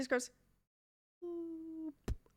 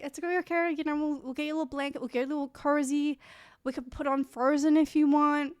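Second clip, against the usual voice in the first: higher-pitched, coaxing reassurance; retold soothing; 3 semitones higher than usual. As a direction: gently coax an upset friend, re-enacted. Comforting a crying friend, retold.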